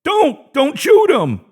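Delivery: injured manager cries out to spare the guard; pleading cry. A narrator's reading. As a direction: beg them not to shoot. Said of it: "cried Andrew".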